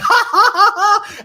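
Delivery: high, loud bursts of laughter; cracking up mid-take, can't stop; laughing helplessly. Retold or imitated. On set, laughing through a choking scene. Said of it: "I'm like".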